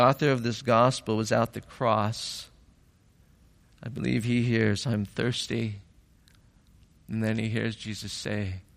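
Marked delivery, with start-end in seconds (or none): 4.9-5.8 softly imitated dying words; quiet retelling. Preacher voicing what John hears at the cross, quietly. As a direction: say it low and soft.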